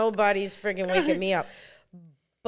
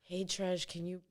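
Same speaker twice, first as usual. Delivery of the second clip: much softer, sweetly polite ask; overly nice request; 2 semitones lower, 6 dB quieter than usual. Retold or imitated. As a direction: hush it down to a gentle plea. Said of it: "Let me say this in the nicest way".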